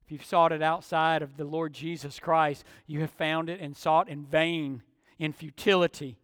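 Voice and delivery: soft, low, searching questions; quiet, earnest preaching; hushed pastoral appeal. Real, not acted. Preacher turns to searching personal questions.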